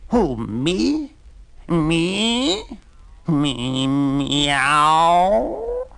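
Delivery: high, rising astonished mews; surprised cat. Acted. Old cat amazed at the donkey's invitation, high surprise. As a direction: squeak it out, disbelieving and delighted.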